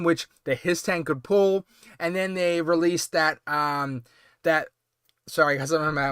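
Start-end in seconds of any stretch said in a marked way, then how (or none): 2.0-4.7 talking around a popcorn kernel; mouth full. Real, not acted. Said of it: "I had popcorn kernel in my mouth".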